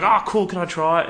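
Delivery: high, loud wide-eyed wonder; excited child. Retold or imitated. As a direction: imitate a thrilled kid spotting a treat. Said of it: "Bella was so excited".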